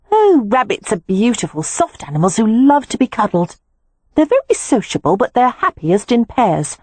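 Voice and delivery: a hint of a girl, fond and soothing; lightly voiced Beatrix, tender. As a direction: Beatrix reassuring Poppy about rabbits, lightly voiced and fond.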